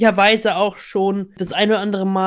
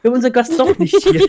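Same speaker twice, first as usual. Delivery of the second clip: cheesy host announcement; 5 semitones higher, 4 dB louder, faster than usual. Pretend. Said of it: "dieses Lag-Geräusch".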